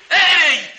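loud demand to read; sharp loud command. Acted. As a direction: snap the order at her. Insists she read.

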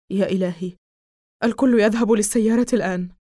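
urgent shout. Acted. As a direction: order everyone out in alarm. Father orders everyone out in fear.

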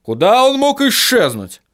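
high, strained dwarf grumble; high-pitched, put-out dwarf; grumbling dwarf. A narrator's reading. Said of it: "проворчал Хороша гора".

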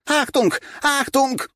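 high shouted warning; alarm call. A narrator's reading. Someone running past raising alarm, high shout.

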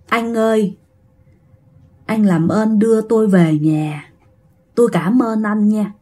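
lightly voiced old man with a Northern Vietnamese accent; measured, polite elder from northern Vietnam, lightly put on. Spirit asks the driver for a ride home, old Northern Vietnamese man. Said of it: "mà ông già này người Bắc".

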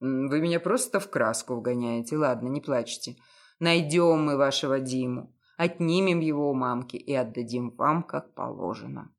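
low, cynical, self-assured detective. A narrator's reading.

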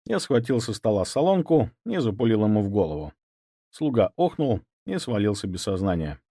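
usual speaking voice

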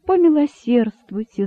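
pleading cry. A narrator's reading. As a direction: plead loudly with the crowd. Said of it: "закричал находчивый".

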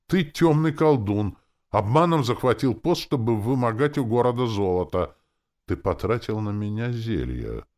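high, loud outburst of reproach; loud accusation. A narrator's reading. Captain accuses the dark sorcerer of seizing the post, loudly. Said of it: "он добавил тише".

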